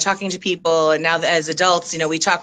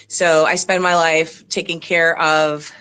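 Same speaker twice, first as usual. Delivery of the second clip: out of breath. Real, not acted. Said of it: "just went up the stairs and I'm out of breath".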